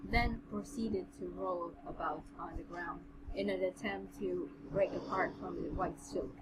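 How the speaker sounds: measured, even read-aloud voice; understated storybook narration; story narration. A narrator's reading. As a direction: read the passage out steadily.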